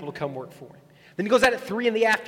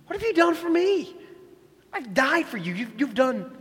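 high, loud mock judge; hammed-up divine roll call; high, loud God picking favourites; God praising and scolding; 6 semitones higher, 5 dB louder than usual. Imagined God ranking people in line.

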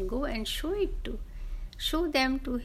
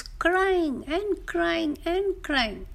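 slow, higher, stretched-out repetition; drawn-out lament; 5 semitones higher, much slower than usual. A narrator's reading. Storyteller dwelling on the woodcutter's endless tears, slow lament. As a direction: draw out each repeated crying.

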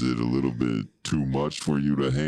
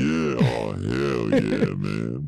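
a touch of late-night radio host; sultry narrator; slower than usual. Pretend. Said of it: "Making it nice and sultry".

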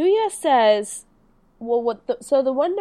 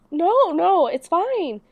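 higher, sweetly insistent; sweet reassurance; 5 semitones higher, slower than usual. Retold or imitated. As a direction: imitate a sweet, gentle brush-off. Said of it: "the way she says it is so sweet".

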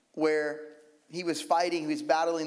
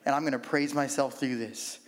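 trusting prayer; 3 semitones lower than usual. Retold or imitated. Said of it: "you say".

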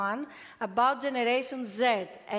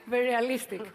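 laughing; 2 semitones higher, 4 dB louder, much faster than usual. Real, not acted. Laughing at a joke.

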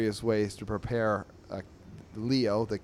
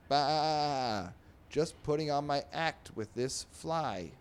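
light bleating sheep voice, a bit higher; 5 semitones higher, slower than usual. Acted. Sheep chatting with the pig, lightly bleating. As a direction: bleat the Bah then talk like a lazy sheep.

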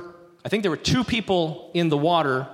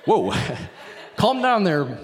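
chuckling "no, no" and a joking calm down; laughing reply. Retold or imitated. Gary laughing off the shaken boy with a joke. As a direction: laugh it off playfully. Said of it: "he's like".

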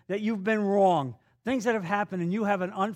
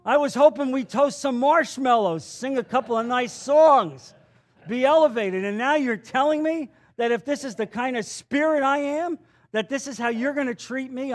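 whiny complaint; 4 semitones higher, 3 dB louder than usual. Retold or imitated. Voicing a complaining churchgoer.

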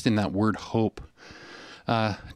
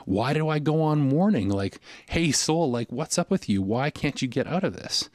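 mildly exasperated, higher-pitched questioning; frustrated; 4 semitones higher than usual. Acted. Worshipper asking his soul why he mourns, frustrated. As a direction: challenge your soul with a touch of frustration. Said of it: "we hear a frustration in that question".

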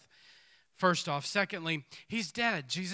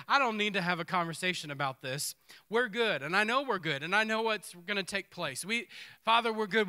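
emphatic Jesus voiced; 4 dB louder than usual. Voicing Jesus to Father, emphatic.

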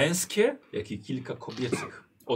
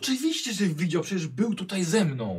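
irritated insistence; 7 semitones higher, 4 dB louder than usual. Acted.

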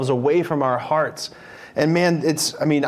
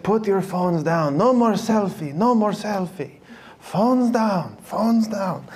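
lightly put-on Pope Francis accent, higher, slow start; a playful Pope Francis accent scolding youngsters; 4 semitones higher, slower than usual.

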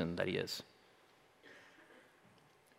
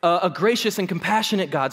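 ordinary talk, nothing marked

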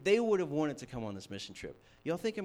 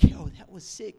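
loud, higher-pitched mock amazement; hyped disciples; 4 semitones higher, 13 dB louder than usual. Disciples after the storm stops, hammed-up hype. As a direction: blurt it out like a thrilled dude. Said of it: "they were like".

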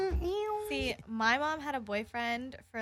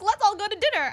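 mock boyfriend; 8 semitones higher, 8 dB louder than usual. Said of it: "he was like".

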